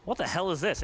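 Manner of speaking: confused goblin. Acted. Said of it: "He goes".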